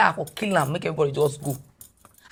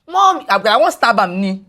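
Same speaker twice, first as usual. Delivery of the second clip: high, loud cry of Mom!; son's shout; 4 semitones higher, 5 dB louder than usual. Retold or imitated. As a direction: yell Mom! like a panicked boy. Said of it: "my son shout".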